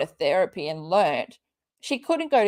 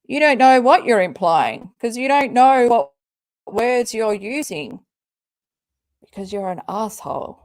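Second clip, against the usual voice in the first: louder, hammering the words; angry retort; 5 dB louder than usual. Real, not acted. Answering the tweet, she snaps back loudly at Katie. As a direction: tell her off, hitting every word.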